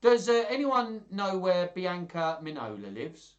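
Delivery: high, put-on servant-as-gentleman voice; Tranio. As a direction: pitch it right up to butt in. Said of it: "Tranio, he spoke like that".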